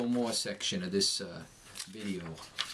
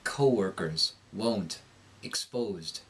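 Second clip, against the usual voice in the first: American accent; 3 semitones lower, slower than usual. Shown as a demonstration. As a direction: clear long O in "Co-workers, won't, exposed", American accent. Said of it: "you'll hear a clear long O".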